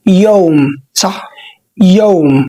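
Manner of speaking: "يوم" said slowly and clearly as a model of the ow sound; Arabic model word. Shown as a demonstration. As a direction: say "يوم" to show the ow vowel. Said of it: "أكنك بالعربي بتقول كلمة". (كلمة يوم كنموذج للنطق)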